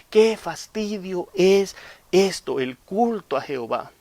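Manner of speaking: slow, drawn-out fed-up sigh; weary whine. Acted. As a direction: drag it out like a bored member. Voicing complaining members.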